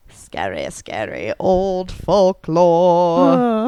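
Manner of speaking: slow, drawn-out spooky tale voice. Acted. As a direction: intone it like an eerie legend. Spooky storytelling voice.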